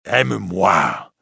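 a priest begging Esmeralda, slow and intense; pleading priest. Acted. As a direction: beg her, holding it back. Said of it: "crie le prêtre".

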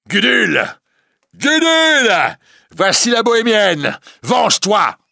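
loud, very high calling out; high-voiced shout. Priest summoning the recluse Gudule, shouting high. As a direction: call at the top of your voice. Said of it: "il crie d'une voix haute".

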